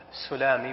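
"السلامي" said as as-Sulami, with damma on the sin; u after the S. Shown as a demonstration. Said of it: "بضم السين".

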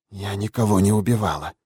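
lightly voiced old prisoner; hoarse old woman. A narrator's reading. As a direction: protest in a restrained old woman's rasp. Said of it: "прохрипел голос старухи". (хрипловатый голос старой узницы)

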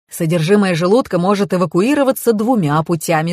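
ordinary delivery, nothing marked

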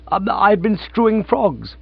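lightly offhand, high and slow. Acted. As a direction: say it as if it were nothing. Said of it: "said Gussie in an offhand way".

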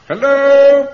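high, loud call into the dark. Acted. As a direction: call out and wait for an answer. Calling out in dark house.

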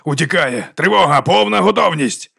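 building to a high, drawn-out call; urgent alarm. A narrator's reading. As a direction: sound the alarm to the whole room. Detective raises the alarm.

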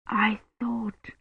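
very soft, hesitant; faint and trailing. Acted. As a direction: let it fade away unsure. Patient trailing off.

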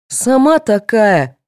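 slow, bristling snap back; snarling retort. Acted. Vera snapping back at Tatyana, snarling. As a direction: bite back like a cornered animal. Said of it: "вызверилась Вера".

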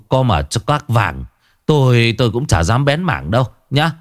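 stammering scared refusal; a village shaman backing away from the cursed village, stammering; frightened shaman refusing. Acted. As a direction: stumble over the words in fear.

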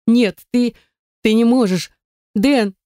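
high tearful calls; desperate crying out. A narrator's reading. Heroine, dragged away, cries desperately for Den. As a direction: call out for him in despair.

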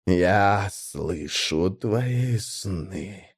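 very slow, deep godlike rumble; a throaty primarch's growl, drawn out. Acted. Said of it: "ответил примарх". (медленный глубокий рык примарха)

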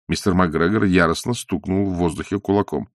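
ordinary delivery, nothing marked

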